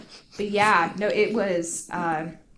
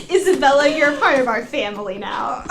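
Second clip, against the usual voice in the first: mock preacher welcome; 3 semitones higher, 5 dB louder than usual.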